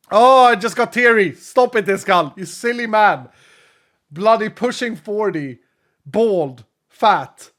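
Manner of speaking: laughing through happy tears; emotional excitement. Real, not acted. Streamer teasing a viewer while choked up, loud and high.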